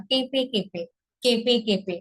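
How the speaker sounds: কেঁপে কেঁপে with the e nasalised; কেঁপে কেঁপে, nasal chandrabindu vowel. Shown as a demonstration. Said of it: "চন্দ্রবিন্দুর উচ্চারণ করতে হবে".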